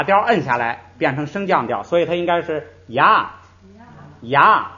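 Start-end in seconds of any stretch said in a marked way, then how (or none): 4.2-4.7 牙 pushed down into a rise-fall contour, said loudly; tone sandhi demo. Shown as a demonstration. Teacher demonstrating the tone change for the class, loudly. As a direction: press the tone down the way sandhi does. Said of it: "应该这样读".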